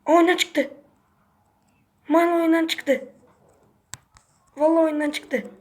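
excited disbelief. Real, not acted. Gamer to his teammate as the rival quits, excited cry. Opponent leaves the game mid-fight.

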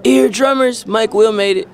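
high-pitched beat-intro drop; imitated producer tag. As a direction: chant it like the tag opening a track. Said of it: "when a beat come on and you hear that".

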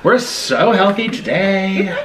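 slow, laughing sarcasm; laughing irony. Real, not acted. Joke over cheesy pasta.

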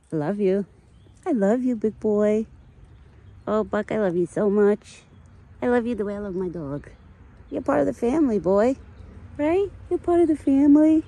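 high, loud gushing love; lavish him with love; doting pet talk. Real, not acted. Owner telling the deer he's family, high loud doting pet talk.

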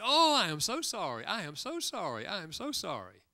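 apologetic waiter. Retold or imitated. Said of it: "And they say".

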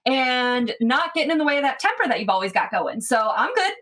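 a touch of defiant bar-side banter; Tiga's retort. Acted. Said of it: "and Tiga's like".

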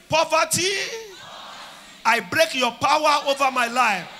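shouted prayer line, "Poverty" loud; loud call to repeat. Shown as a demonstration. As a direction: lead the crowd in a loud shout. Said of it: "say after me".

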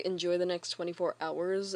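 low, understated menace; vaguely threatening. Shown as a demonstration. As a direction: say a farewell as a veiled threat. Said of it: "and not sound vaguely threatening".

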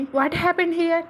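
very slow, drawn-out shout; slow, loud, stunned yell. A narrator's reading. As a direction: bellow it across the room. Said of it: "అని గట్టిగా అరుస్తాడు మను".

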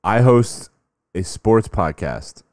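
slow, drawn-out fan voice; slow mock fan pitch. Fan pitching his podcast to Durant, slow mock pride. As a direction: say it like a proud nobody. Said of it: "The guy says to him".

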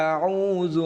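أعوذ with the ع squeezed in the throat; ain from the throat. Shown as a demonstration. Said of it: "আইন, এটিও গলার ভিতর থেকে".

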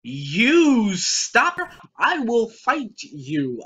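hammed-up outburst, stretched then rushing; playful raging threat; mock-angry threat. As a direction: threaten them in mock fury, racing at the end.

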